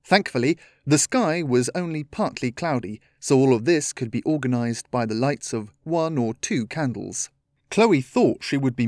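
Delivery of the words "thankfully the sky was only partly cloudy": ordinary delivery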